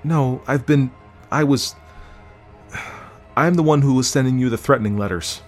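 high voice, faltering, then a sigh before admitting it; hesitant, high-pitched admission; halting confession. A narrator's reading. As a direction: blurt out the confession after false starts. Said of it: "Tara confessed".

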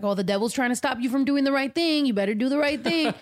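a hint of a nagging, superstitious mother; imitating mom. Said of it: "making mommy sound like Bobby Boucher's mom".

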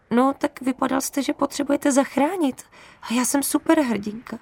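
shaky voice. Acted. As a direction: sound brave while scared. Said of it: "řekla jsem roztřeseným hlasem".

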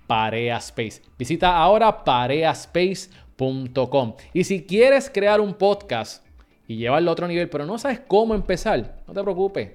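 upbeat host and ad read, punchy openings; podcast host intro. Acted. Host greeting listeners and selling the studio, upbeat ad read. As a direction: sell the show and the studio with energy. Host opens show and reads ad.

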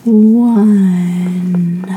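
one long, low drawn-out word; mock slow count, dragged way out. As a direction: stretch the number out endlessly in a low voice. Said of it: "People would count so fucking slow".

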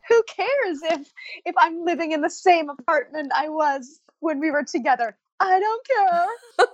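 defiant laugh through the tears. Real, not acted. To the host about her ex, laughing through tears. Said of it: "And I'm gonna cry my".

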